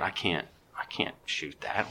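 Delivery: unvoiced whisper to himself; hushed whisper. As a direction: breathe it out, don't spook the deer. Whispering thoughts while deer near.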